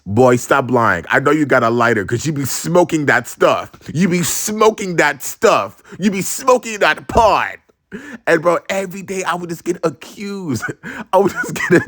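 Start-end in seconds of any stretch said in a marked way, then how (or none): 0.1-7.6 mock-mom accusation climbing in pitch; building scolding, mom impersonation. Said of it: "And she was like".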